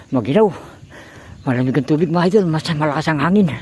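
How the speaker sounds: teeth-chattering cold, wet and shivering. Real, not acted. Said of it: "nanginginig ako sa ginaw".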